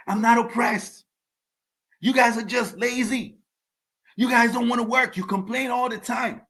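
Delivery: quoting her in a high mock African accent; high-pitched imitation of an African accent. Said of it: "in her African accent".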